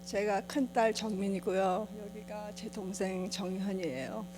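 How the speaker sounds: Korean American accent, careful and unhurried. Real, not acted. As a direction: Korean spoken as a second language by a Korean American. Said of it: "제가 한국말을 잘, 잘 못해서".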